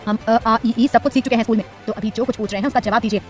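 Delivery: husband loudly cutting off her stammering. Acted. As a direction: demand a straight answer. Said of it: "निहार जोर से बोला".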